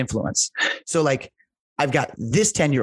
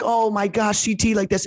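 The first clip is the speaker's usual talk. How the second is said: higher, gushing players' voice; mock-gush like the softball girls, pitched up; imitating the girls; 7 semitones higher than usual. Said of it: "And they're like".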